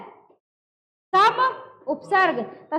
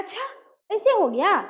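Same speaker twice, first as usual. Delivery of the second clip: mild, hushed surprise with a raised "अच्छा"; shocked reaction; 2 semitones higher than usual. Shown as a demonstration. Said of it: "कोई shocking news आप सुनते हैं". (हल्की हैरानी से)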